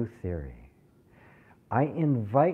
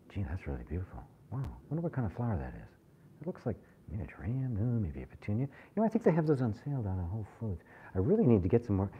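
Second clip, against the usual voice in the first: chattering mind; 7 dB quieter, faster than usual. Retold or imitated. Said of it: "it's like".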